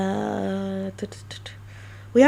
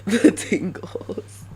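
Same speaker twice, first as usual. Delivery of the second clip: mock ASMR whisper; much slower than usual. ASMR teasing aside.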